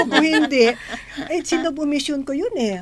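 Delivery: re-living her alarm at the missed mass; worked-up inner thought. Retold or imitated. Sharing at prayer group, retells her alarmed inner thought. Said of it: "kasi sabi ko".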